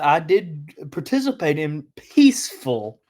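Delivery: peaceful lifted and held; stress on peaceful. Shown as a demonstration. Telling viewers about his protests, peaceful emphasized. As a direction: lean hard on peaceful. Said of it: "I cannot stress that word enough".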